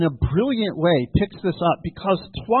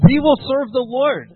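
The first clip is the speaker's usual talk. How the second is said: raised, louder pledge from the people; emphatic declaration; 8 semitones higher, 6 dB louder than usual. Retold or imitated. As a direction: declare it high and firmly, as a crowd's answer. The people answering Joshua's challenge.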